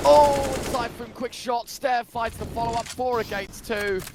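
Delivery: high, loud, slow hype call; excited shout. Real, not acted. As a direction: burst out at the kill. Caster erupts at an opening kill.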